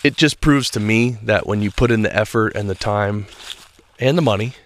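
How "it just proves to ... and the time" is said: ordinary delivery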